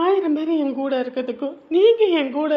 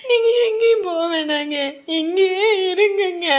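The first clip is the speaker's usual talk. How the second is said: crying plea; 2 semitones higher than usual. Acted. Wife begs husband to stay.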